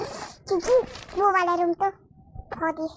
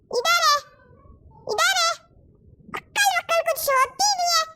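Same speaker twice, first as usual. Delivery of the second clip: 1 exasperated scolding; 9 semitones higher than usual. Acted. Mother scolding daughter.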